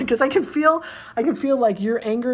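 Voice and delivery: a laugh breaking into the words; laughing burst. Real, not acted. Reader laughs at her own anger for the client, laughing. Getting angry for you, laughing.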